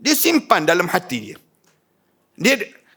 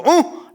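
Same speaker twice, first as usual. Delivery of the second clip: mock exasperated uh; 7 semitones higher than usual. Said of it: "kamu sebut".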